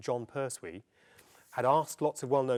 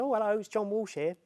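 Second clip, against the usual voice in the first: put-on much higher-pitched young South London voice; South London accent; 11 semitones higher, 3 dB louder than usual. Film student phones his idol, high-pitched South London accent. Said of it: "'cause I had a South London accent at the time".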